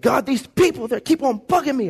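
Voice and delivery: whiny complaint. Retold or imitated. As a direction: moan like a fed-up leader. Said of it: "Moses was mad at the people".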